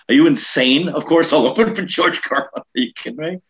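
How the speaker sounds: high-pitched, jumping at the offer; incredulous eagerness. Retold or imitated. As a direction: burst out in comic disbelief. Mock disbelief at obvious offer.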